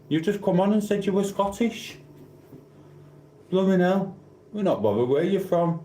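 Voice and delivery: high, far exaggerated disbelief; playful high indignant whine; mock exasperation. Real, not acted. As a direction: tease the viewer in a squeaky voice. Teasing exasperation at viewer.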